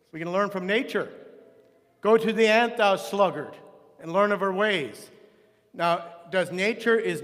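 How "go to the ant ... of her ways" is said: scripture quotation. Acted. Recites a scripture proverb aloud.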